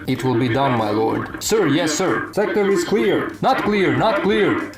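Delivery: clangy robotic trooper radio voice; clone trooper voice changer. Pretend. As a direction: bark trooper lines through helmet filter. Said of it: "that's how the voice changer of this helmet sounds".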